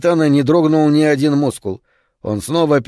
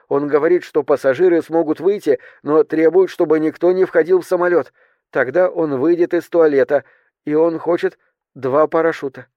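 stewardess reporting demands; 3 semitones higher than usual. Acted. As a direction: relay the threats in a raised, careful voice.

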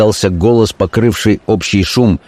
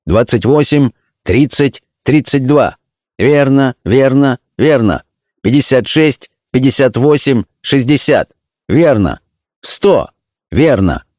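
higher, even tallying calls; counting out loud; 5 semitones higher than usual. A narrator's reading. Elder counting cards while the notary checks, calling out. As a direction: call each figure, pitched up. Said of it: "громко считал".

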